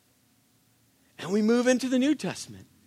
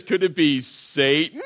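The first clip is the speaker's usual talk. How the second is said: church lady; 4 semitones lower than usual. Retold or imitated. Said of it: "Dana Carvey sketch, the church chat with the church lady".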